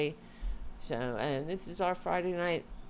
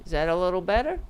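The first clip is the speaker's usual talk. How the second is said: louder mic check, projected; 4 semitones higher, 7 dB louder, much faster than usual. Shown as a demonstration. Streamer rechecks volume with chat, speaking up louder. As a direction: lean in and ask it louder. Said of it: "I'll try to speak louder".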